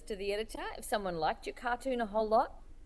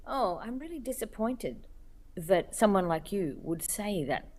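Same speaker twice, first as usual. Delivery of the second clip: patronising disappointment; 2 semitones lower than usual. Retold or imitated. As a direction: mildly mimic a disappointed, condescending email writer. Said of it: "it comes in with the tone of".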